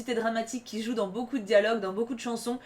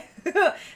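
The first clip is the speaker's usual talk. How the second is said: short laugh; 7 semitones higher than usual. Real, not acted. Amused at Mozart being annoying.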